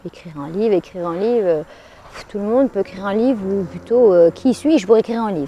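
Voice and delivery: low, dismissive puff of mild self-doubt; self-doubting inner voice. Retold or imitated. Author recalls her doubts about writing a book, mildly dismissive. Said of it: "Et puis je me disais".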